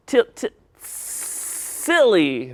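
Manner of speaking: slow, halting "silly"; struggling to say silly. Real, not acted. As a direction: stumble slowly into "silly". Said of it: "Now let's say silly".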